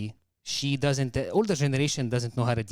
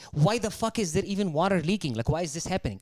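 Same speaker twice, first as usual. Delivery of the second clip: retold exasperated outburst, pitched up; snapped; 5 semitones higher than usual. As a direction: demand answers like someone who just lost patience. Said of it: "that's when I snapped".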